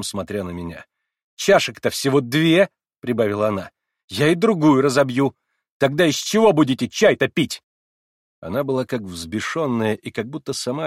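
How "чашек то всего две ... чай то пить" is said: high, loud taunt; taunting shout. A narrator's reading. Girl threatening to smash the other cup, loud taunt. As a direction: taunt them loudly.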